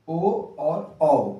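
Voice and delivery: ओ and औ stretched slowly; ओ और औ drawn out; slow vowel demo. Shown as a demonstration. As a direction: say ओ और औ slowly for pupils. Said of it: "उच्चारण करते हैं".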